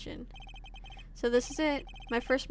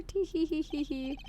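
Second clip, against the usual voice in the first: giggling; 3 semitones higher, 6 dB quieter than usual. Acted. Giggling character.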